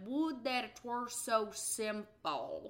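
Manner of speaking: very slow, stumbling drawl, each word drawn out. Retelling a film scene, an actor who can't say the line: Alden Ehrenreich drawl impression. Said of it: "he has a longer drawl in the way that he talks".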